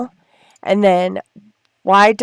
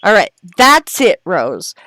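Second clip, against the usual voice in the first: louder, firm mock telling-off; mock scolding; 3 semitones lower, 4 dB louder, slower than usual. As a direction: scold the sim like a fed-up mom. Scolding her sim.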